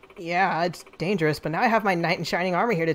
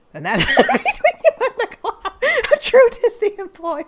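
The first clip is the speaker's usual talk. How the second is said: very high, loud cartoon voice cracking into laughter; can't keep the cartoon voice straight; giggling through a loud cartoon squawk; silly high voice, laughing; 14 semitones higher, 7 dB louder than usual. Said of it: "I couldn't think of any other voice".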